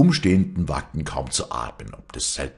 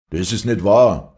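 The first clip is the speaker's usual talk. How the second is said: loud, higher outraged shout; shouted denial; 5 semitones higher, 10 dB louder than usual. A narrator's reading. Son defends his father against the insult, shouting. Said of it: "schrie Joseph".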